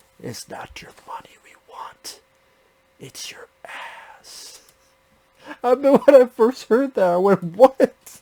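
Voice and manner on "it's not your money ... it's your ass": very deep, hushed, hard tough-guy whisper. Quoting a laughable line given to an actor made to talk like this, in a very deep Dirty Harry voice. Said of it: "very deep".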